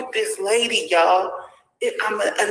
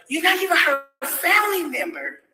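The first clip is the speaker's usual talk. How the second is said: mocking shout; 5 semitones higher than usual. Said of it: "Who the fuck calls a baby and tell her".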